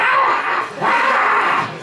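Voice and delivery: very high flailing shriek; high, hoarse crazed animal scream; crazed porpoise scream. Retold or imitated. Long high porpoise-like scream. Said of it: "flopping around like a crazed beach porpoise".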